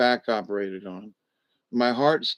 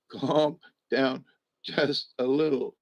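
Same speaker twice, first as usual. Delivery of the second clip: gentle soothing; 4 dB quieter than usual. Real, not acted. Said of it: "It's a little excessive".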